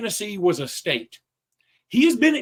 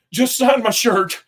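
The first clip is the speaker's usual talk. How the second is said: put-on kid voice; 6 semitones higher, 7 dB louder, slower than usual. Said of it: "He goes".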